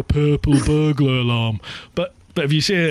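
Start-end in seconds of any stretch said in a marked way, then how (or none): 0.0-1.6 English way. Shown as a demonstration. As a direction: say "purple burglar alarm" the English way, quick and smooth. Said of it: "if you were English, you'd go".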